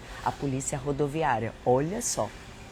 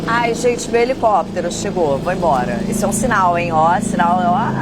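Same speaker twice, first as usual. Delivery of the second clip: loud, high-pitched excitement; excited outburst; 5 semitones higher, 12 dB louder than usual. Real, not acted. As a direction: burst out loudly, pitch jumping up. Interrompe a fala, helicóptero chegou. (empolgada, falando alto e agudo)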